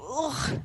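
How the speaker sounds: drawn-out "ugh" of disgust; disgusted groan. A narrator's reading. Storyteller reacts to snake bladder stew, disgusted groan. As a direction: groan as if revolted. Reacting to the gross troll food.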